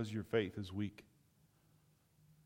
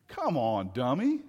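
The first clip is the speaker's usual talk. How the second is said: mock exasperation; 7 dB louder than usual. Mocking the slow disciples.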